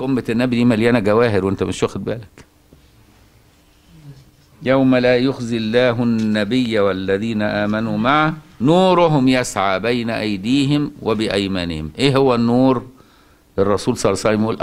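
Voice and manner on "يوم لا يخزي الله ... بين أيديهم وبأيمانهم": slow, measured chanting of the verse; Quranic recitation. Acted. Sheikh reciting the verse to his students, slow chant. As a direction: recite the verse in tajweed style, unhurried.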